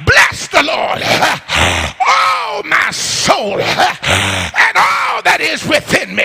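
fervent declaration, stretched out slowly; with emotion. Shown as a demonstration. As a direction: declare it with real conviction. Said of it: "say it with some emotion".

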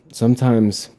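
words pushed out on a burp. Real, not acted. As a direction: say it through a toad burp. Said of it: "you can still hear me, like, doing that toad burp".

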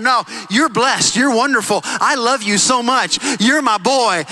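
slow, loving father's words; a touch of a tender dad, unhurried; slow tender blessing. Retold or imitated. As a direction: pour love onto your boy, slowly. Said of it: "counteracting that by saying".

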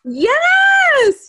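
high, loud whoop of delight; long, high-pitched delighted yell; real excited shout. Real, not acted. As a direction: shout it out, thrilled to be recognised. Delighted at hearing her nickname.

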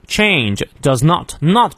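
"not" given full stress. Shown as a demonstration. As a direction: lean on "not" in "change does not". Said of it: "重读". (“not”重读)

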